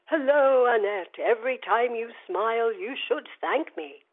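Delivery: imitated tannoy voice, slowing at the end; tannoy announcer. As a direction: call it out like a tannoy greeting. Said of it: "in a Butlins-like tannoy echo say".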